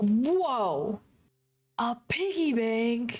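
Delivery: mock big, exaggerated, overdone wonder, high, very slow. Retelling dad opening the gift box: imitating exaggerated excitement. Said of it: "he makes a big deal out of it".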